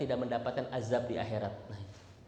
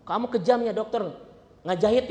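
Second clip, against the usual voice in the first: higher and louder, a hammed-up protest; mock yelling at doctor; 7 semitones higher, 8 dB louder than usual. Preacher imitating a patient shouting at the doctor, mock yell. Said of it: "Bapak Ibu teriak-teriak di rumah sakit".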